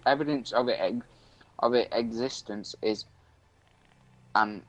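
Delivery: halting read-aloud from an article. Acted. Streamer reads an urban legend to a friend, reading aloud. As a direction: read it out to a mate, stumbling a little.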